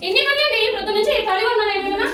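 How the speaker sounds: mildly heated self-defence; indignant retort. Acted. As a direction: argue back, voice rising in pitch. Wife argues back about housework.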